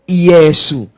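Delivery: Iesu said slowly, syllable by syllable; pronounced Iesu. Shown as a demonstration. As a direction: draw out the name Iesu carefully.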